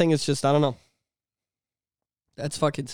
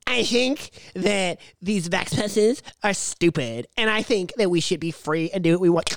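tough Gina Carano; 3 dB quieter than usual. Retold or imitated. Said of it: "big tough Gina Carano".

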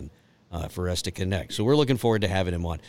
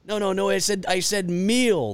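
high, animated back-and-forth at the drive-thru; mock exchange; 9 semitones higher than usual. Retelling the McDonald's order, voices pitched up. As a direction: play both sides of the ordering mix-up. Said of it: "replaying the drive-thru exchange".

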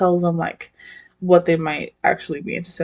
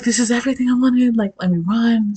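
quick, mildly panicky retelling; mock freak-out; 3 semitones higher than usual. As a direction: rush it like a playful freak-out. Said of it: "freaks out".

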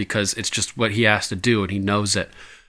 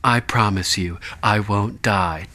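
serious vow; 2 semitones lower, slower than usual. Retold or imitated. Host imitating Sam's grave vow, understated. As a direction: deliver it flat and grave. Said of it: "his just face is totally serious".

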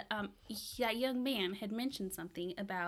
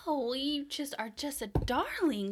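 flirty; 6 semitones higher, 5 dB louder than usual. Acted. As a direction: lay the charm on thick. Player flirts in character.

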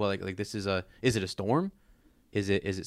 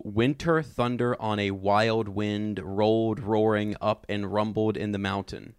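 slow, measured dramatic reading; savoured alliteration. Shown as a demonstration. Host rereads a favorite line for its alliteration, slow and savoured. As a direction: read it slowly, relishing each alliterated word.

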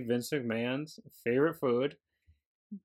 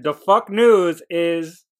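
mock segment announcer; 3 semitones higher, 10 dB louder, slower than usual. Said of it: "designated Undertaker's news section".

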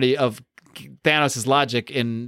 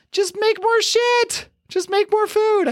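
much higher, slow, stretched-out exasperation; exasperated rant; slower than usual. Real, not acted. Ranting to cohost about Thanos' logic, high and drawn out. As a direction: spell it out slowly like it's obvious.

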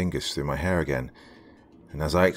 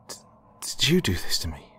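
pitiful whisper. Acted. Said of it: "pitifully asked".

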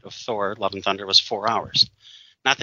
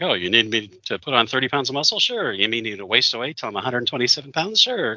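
cheerful imitation, each sure flipped way up; mock eager actor; 3 semitones higher than usual. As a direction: play the actor as happy to agree to anything. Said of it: "It's like".

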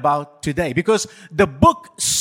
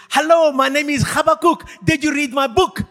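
higher, louder, hearty shout of "Hello, my name is Habakkuk"; booming prophet greeting; 9 semitones higher, 5 dB louder than usual. Pretend. Pastor voicing Habakkuk greeting a churchgoer, loud and hearty. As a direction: call out like a proud prophet meeting a fan.

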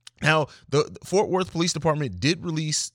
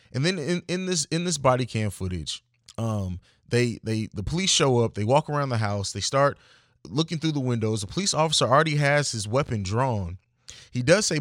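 ordinary talk

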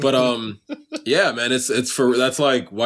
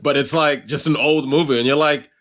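ordinary talk

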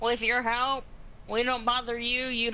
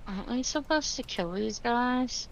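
hand over mouth. Acted. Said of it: "put my hand over my mouth".

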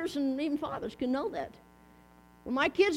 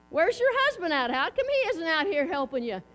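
lightly acted neighbor, pitched up at the start; nosy neighbor. Neighbor to a woman shoveling snow, lightly acted puzzled question. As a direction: call it over like a puzzled neighbor.

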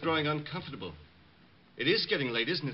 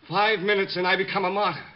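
building fanatic fervour; 4 semitones higher, 4 dB louder than usual. Acted. Bomber counting down the minutes, rising to a fervent cry. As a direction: climb from grim count to zealous cry.

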